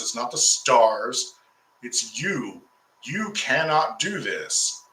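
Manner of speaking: mock-confrontational, driving home each accusation; heated retold rebuke. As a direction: re-enact an angry telling-off, not shouted. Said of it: "I am heated, I'm hot, and I'm not holding much back".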